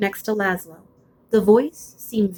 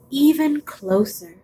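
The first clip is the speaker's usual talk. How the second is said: beckoning dark voice; 5 semitones higher, slower than usual. Acted.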